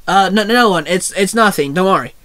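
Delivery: a touch of nervous stammer; worried tone. Acted. Allison hides a man from Jordan, mildly worried. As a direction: stumble over a mildly anxious denial. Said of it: "Allison replied in a worrying tone".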